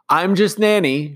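calling back over the distance. A narrator's reading. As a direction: call it back while walking away. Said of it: "she called back".

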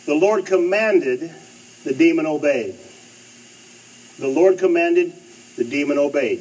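loud preacher's cry of the key line; preaching proclamation. Acted. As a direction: thunder it from the pulpit. Preacher proclaims climax, repeating it.

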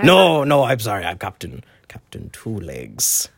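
a hammed-up pirate captain; lightly voiced pirate. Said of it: "speak to Pirate Briggs".

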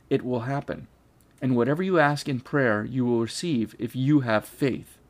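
measured, steady Bible reading; scripture reading. Acted. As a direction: read the verses out to the class. Reads Matthew passage aloud.

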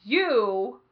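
very slow, loud pronouncements; mock-solemn, one word at a time; teacher assigning countries. Teacher dividing the class into nations, slow and loud. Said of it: "He's like".

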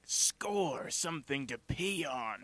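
mock delight at a lucky find; lightly voiced homeless guy. Homeless guy finding a newspaper in an alley, mock-pleased exclamation. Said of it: "sees some homeless guy in an alley".

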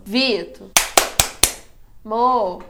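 chamado alto e descendente; chamando alto. Real, not acted. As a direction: chame pra acordar alguém. Chamando o Vitor de novo. (chamando o Vitor mais uma vez)

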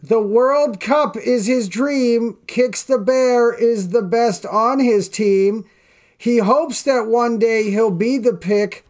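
slow sing-song poem reading. Acted. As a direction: read the tag rhyme slowly, like a kids' verse. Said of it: "reading the bear's poem aloud".

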